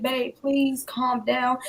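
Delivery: slow, mild plea; retold begging. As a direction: gently imitate a begging husband, stretching it out. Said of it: "husband was just begging me".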